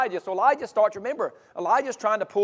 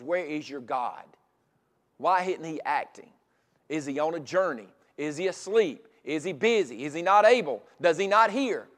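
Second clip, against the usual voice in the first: trash talk. Retold or imitated. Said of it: "he's talking smack to the other team".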